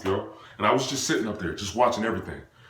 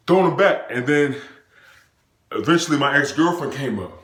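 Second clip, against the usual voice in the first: ordinary talk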